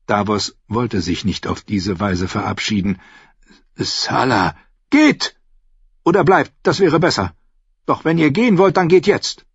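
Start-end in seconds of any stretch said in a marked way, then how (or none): 3.7-9.4 put-on old sailor warning. Old captain warns the knight, mocking and grim. Salador speaks, then softens.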